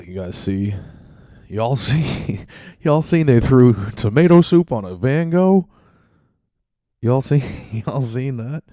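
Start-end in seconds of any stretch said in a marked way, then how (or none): 1.5-8.6 hyped-up host voice. Pretend. Mock excited announcer.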